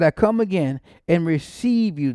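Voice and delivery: receive lifted high and loud; stress on receive. Shown as a demonstration. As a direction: lean hard on receive. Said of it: "that word receive".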